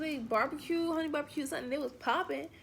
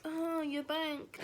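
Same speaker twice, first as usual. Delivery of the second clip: sarcastic; 6 dB quieter, much slower than usual. Retold or imitated. Sarcastic reply to date.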